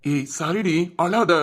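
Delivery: tender, subdued brotherly comforting; hushed, pained reassurance; consoling. Acted. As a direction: gently soothe a crying sister. Consoling a sister who is crying.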